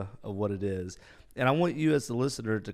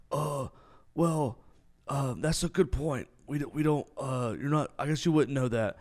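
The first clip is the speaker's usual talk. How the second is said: a hint of flustered cadets; 4 semitones higher than usual.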